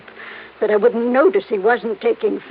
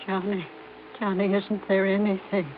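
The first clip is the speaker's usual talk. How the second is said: despairing; 3 semitones lower, 9 dB quieter than usual. Acted. Helen despairs for Johnny.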